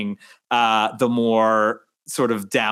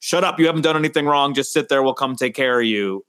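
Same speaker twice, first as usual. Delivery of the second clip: put-on quick, tough New York cop accent, lightly done. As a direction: brush off the citizen like a Long Island cop accent. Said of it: "that was my cop accent".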